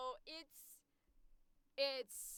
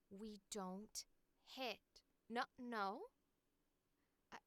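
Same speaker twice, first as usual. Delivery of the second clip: put-on soft, gentle talking-to for a child; hushed, halting reprimand that gives way to approval; happy little character line; 7 dB quieter than usual. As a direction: gently scold a little kid, then quietly give in. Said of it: "I'll do this little happy line".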